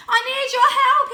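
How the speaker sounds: loud, high, desperate cry; pleading yell. Acted. Cat begs the speeding cars for help, yelling high. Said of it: "he yelled".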